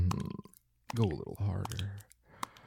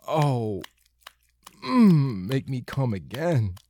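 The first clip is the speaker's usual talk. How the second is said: breathless climax build; 5 semitones higher, 9 dB louder than usual. Acted. Near climax, moaning.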